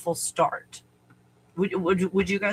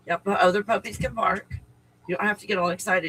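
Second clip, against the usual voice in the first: scolding the dog; faster than usual. Real, not acted. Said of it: "scolding the barking dog".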